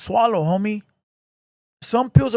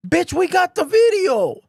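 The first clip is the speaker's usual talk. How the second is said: high exasperated retort; 8 semitones higher than usual. Real, not acted. Retort to mocked thief.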